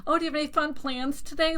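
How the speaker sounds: high, quick mimicked small talk; peppy barista. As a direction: imitate an over-friendly barista's fast question. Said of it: "they're so peppy".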